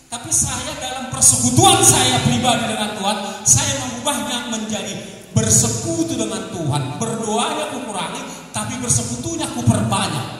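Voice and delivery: loud, driving sermon voice; full-force preacher; forceful preaching. Acted. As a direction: preach it out to the congregation.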